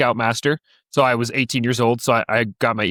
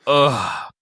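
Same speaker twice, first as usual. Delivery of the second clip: weary eye-rolling "ugh"; exasperated groan. Retold or imitated. Scoutmaster fed up with the brothers, exasperated groan. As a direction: imitate a tired leader groaning. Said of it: "rolls his eyes and he's like".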